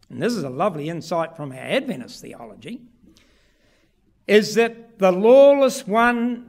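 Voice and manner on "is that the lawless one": preaching emphasis. Acted. Preacher stressing the prophecy.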